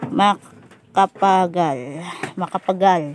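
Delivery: slow, stretched out "Makapagal"; drawn out slowly. Shown as a demonstration. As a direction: draw out the syllables of the name. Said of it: "Makapagal Arroyo".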